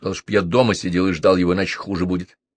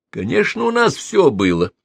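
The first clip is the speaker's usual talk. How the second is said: curt, higher retort; sharp; 7 semitones higher, 3 dB louder than usual. A narrator's reading. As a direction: snap it back. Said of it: "резко сказал Арчи". (резко)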